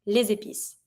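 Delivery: "les épices" as lay-zay-peess; linked S. Shown as a demonstration. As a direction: link "les épices" with a Z sound. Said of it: "I'll link it with my S".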